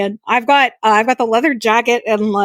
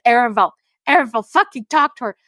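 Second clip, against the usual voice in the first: higher, exasperated urging at the screen; frustrated pleading; 8 semitones higher than usual. Retold or imitated. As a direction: beg the character to talk to his mother. Yelling at game character.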